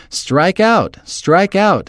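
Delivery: high, mild mock scream; fans screaming. A narrator's reading. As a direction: chant it like rival fans, without full volume. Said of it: "the other team's fans screamed".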